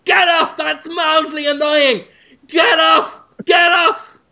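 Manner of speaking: high, loud yelping; mock pained protest. Host voices a netted man prodded with a trident, high yelps. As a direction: yelp like someone being poked. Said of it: "And he's just going".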